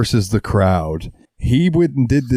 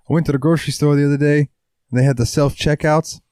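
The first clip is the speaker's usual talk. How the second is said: higher, quick comic rant; Bill Burr impression; 5 semitones higher, faster than usual. Quoting a comedian's joke to a friend, mock Bill Burr rant. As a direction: launch into a Bill Burr bit. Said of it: "that Bill Burr joke".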